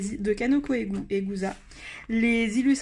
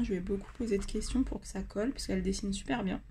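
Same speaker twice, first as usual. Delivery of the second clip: whispering; 2 semitones lower, 6 dB quieter than usual. Real, not acted. Sudden whisper aside.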